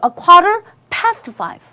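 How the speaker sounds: "A quarter past five" very slow and clear; slow dictation. Shown as a demonstration. Teacher dictating the time to students. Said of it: "똑같이 쓸 수 있죠".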